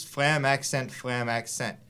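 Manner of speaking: "flam accent" chanted evenly as a triplet count; spoken drum rhythm. Shown as a demonstration. Drum teacher sounding out the rudiment for learners, spoken in rhythm. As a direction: say "flam accent" in time, like drum strokes in threes. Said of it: "you can actually say it".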